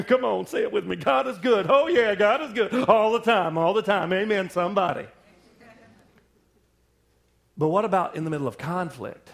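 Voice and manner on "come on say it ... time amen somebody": call and response. Real, not acted.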